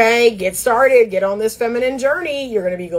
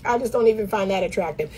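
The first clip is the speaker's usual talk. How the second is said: unbothered dismissal; 6 dB quieter, faster than usual. Retold or imitated. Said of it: "You're just like".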